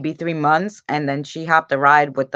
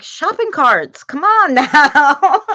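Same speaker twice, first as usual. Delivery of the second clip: slow, higher, laughing exasperation; mock exasperated; 10 semitones higher, 6 dB louder, slower than usual. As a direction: drag it out like the answer is obvious.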